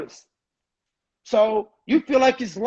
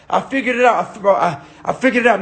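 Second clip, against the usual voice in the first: mock out of breath; faster than usual. Shown as a demonstration. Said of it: "Make it seem like you out of breath".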